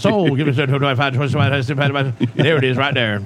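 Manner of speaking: fast rattling auction chant; auctioneer. Pretend. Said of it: "You sound more like an auctioneer".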